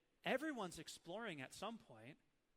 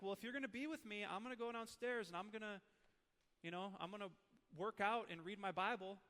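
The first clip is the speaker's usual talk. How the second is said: parent giving terms; 4 semitones higher than usual. Retold or imitated. Dad relents to his child.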